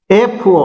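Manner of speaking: ଏଫ୍ ଓ said slowly, opening on the vowel e; initial vowel sound. Shown as a demonstration. Teacher showing why an is used, ଏଫ୍ ଓ with initial e sound. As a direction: let ଏଫ୍ ଓ begin with a clear e. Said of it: "ଏ ଉଚ୍ଚାରଣ ହଉଛୁ".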